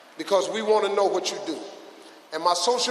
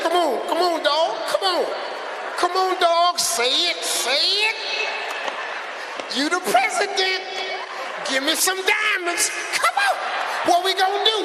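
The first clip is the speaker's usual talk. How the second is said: high, loud, pleading egging-on; eager urging; 10 semitones higher, 3 dB louder than usual. Retold or imitated. Comedian mimicking himself egging on the president, high and loud. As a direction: beg him to say the magic words.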